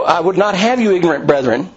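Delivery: a touch testy, leaning on "have"; mildly sharp scolding tone; a hint of impatience with the brethren; testier. Shown as a demonstration. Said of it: "a little, uh, testier than".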